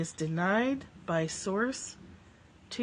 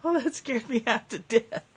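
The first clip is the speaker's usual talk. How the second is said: laughing; 4 semitones higher, 4 dB louder than usual. Real, not acted. Laughing after the fright.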